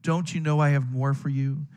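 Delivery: a light touch of a caring father; mildly tender fatherly question. Shown as a demonstration. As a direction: ask gently, like a loving dad. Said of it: "I picture God in his fatherly, caring voice saying".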